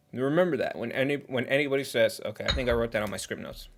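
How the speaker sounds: talking while eating cake; words around a bite of cake; mouth full. Real, not acted. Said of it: "I'm sorry to talk with my mouth full".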